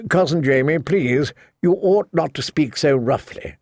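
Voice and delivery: anxious, pleading knight voice; nervous young knight. Acted. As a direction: plead politely, a little nervous. Sir Cleos pleads with Jamie.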